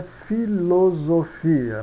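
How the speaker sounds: "filosofia" with a clear F, syllables spaced. Shown as a demonstration. Teacher explaining the Spanish equivalent, carefully syllabified. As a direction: sound out "filosofia" fi-lo-zo-fi-a. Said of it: "se pronuncia F".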